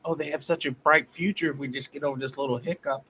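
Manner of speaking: mock-sympathetic sarcasm; mocking defender voice. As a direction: sneer at the excuse-makers.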